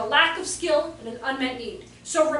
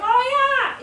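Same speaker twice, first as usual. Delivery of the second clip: mock distracted mom; 11 semitones higher, 9 dB louder than usual. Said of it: "she'd be like".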